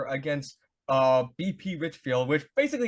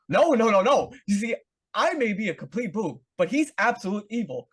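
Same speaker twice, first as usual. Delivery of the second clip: Earl voice; 4 semitones higher, 4 dB louder than usual. Retold or imitated. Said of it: "And he says".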